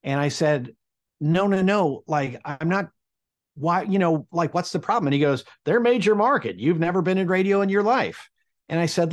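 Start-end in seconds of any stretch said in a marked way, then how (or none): 1.2-5.1 retold protest. Protesting the laughing director. 5.6-8.3 retold scoff. Director scoffing at the internship idea.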